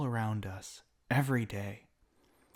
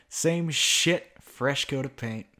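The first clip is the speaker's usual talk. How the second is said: contemptuous outburst; 2 semitones higher, 5 dB louder, slower than usual. Acted. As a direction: spit the words out in disgust. Villain spitting contempt.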